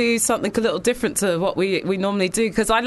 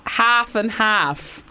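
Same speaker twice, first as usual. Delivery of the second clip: put-on slow try at Cardiff accent on "half and half"; attempted Cardiff accent; much slower than usual. Host relaying the Welsh producer's phrase, attempted Cardiff accent. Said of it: "she's saying ha".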